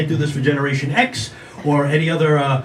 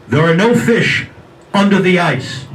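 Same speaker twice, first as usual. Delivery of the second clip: a louder, looming voice from nowhere; mysterious voice; 5 dB louder, slower than usual. Retold or imitated. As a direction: boom it like an unseen voice. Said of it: "he hears this voice saying".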